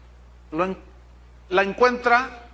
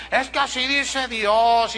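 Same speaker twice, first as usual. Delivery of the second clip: mock preacher; 4 semitones higher, 4 dB louder, slower than usual. Mocking a misquoted preacher.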